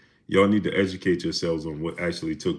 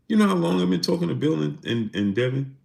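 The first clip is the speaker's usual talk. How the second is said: pitched way up, in disbelief; higher, incredulous at the chatter; exasperated repeat; 9 semitones higher than usual. Real, not acted. Streamer repeating himself to chat, exasperated and high. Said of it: "repeats his reply, more heated".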